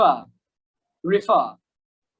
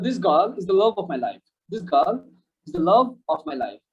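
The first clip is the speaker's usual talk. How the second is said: very slow, "love" stressed; slow demo sentence; much slower than usual. Shown as a demonstration. Teacher reads a slow model sentence to students. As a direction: spell it out slowly for learners. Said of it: "So আমরা এক্সাম্পলে যাই".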